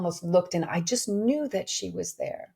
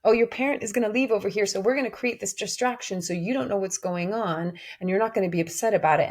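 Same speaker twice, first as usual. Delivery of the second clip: mock soothing parent; 2 semitones higher, faster than usual. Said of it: "told to parent".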